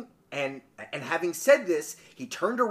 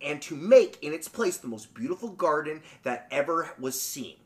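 measured, quieter storybook reading; story narration; 3 semitones lower, 4 dB quieter than usual. A narrator's reading. Podcaster reading a folk tale to co-host, story narration. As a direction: read the tale with lilting emphasis.

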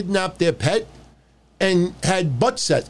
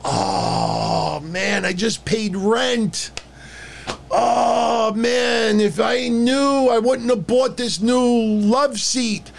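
mock whiny complainer; 4 semitones higher, much slower than usual. Mocking online complainers.

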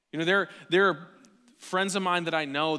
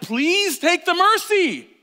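high, slow, pleading plea; a high, drawn-out pleading voice; pleading Jesus; 12 semitones higher, 12 dB louder, much slower than usual. Retold or imitated. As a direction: beg them gently to take it. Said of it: "Jesus is like".

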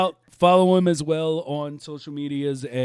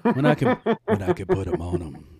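laughing; 3 semitones higher than usual. Real, not acted. Laughing at his own line.

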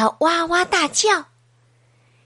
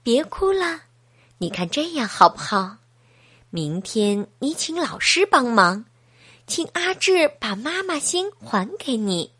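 comforting. Acted. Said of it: "安慰道". (妈妈轻声安慰哭泣的女儿)

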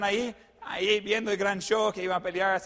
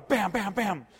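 three punchy "pam" hits in a row; imitated crash thuds; slower than usual. Pickup hits three cars, storyteller imitates the bangs. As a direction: sound out each car getting hit.

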